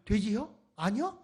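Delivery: clipped Chungcheong question and answer, lightly imitated; 짧게 흉내 낸 충청도 사투리 문답; Chungcheong dialect. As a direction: mimic a terse Chungcheong exchange. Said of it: "이렇게 끝나는 거예요".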